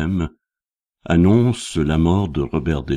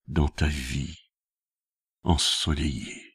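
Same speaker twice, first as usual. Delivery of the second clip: poem recitation. Acted. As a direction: recite in measured phrases, then let the ending drop away. (récitation de poème, posée, qui s'éteint doucement)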